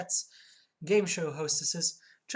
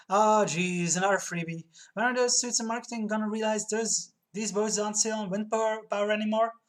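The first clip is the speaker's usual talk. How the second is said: raised, pushed acted complaint; exasperated griping; 4 semitones higher, 4 dB louder than usual. Purser griping about marketing suits, exasperated. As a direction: grumble out loud, fed up.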